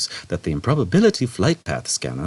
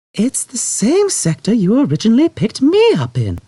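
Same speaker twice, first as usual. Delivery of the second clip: very calmly; 5 dB louder than usual. A narrator's reading. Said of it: "very calmly".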